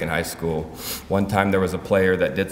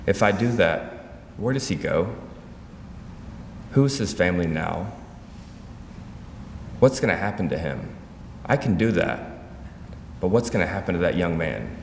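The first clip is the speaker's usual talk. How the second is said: measured questions with long pauses; patient, gentle. Retold or imitated. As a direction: reason gently, leaving room after each question. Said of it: "responded very patiently and gentle".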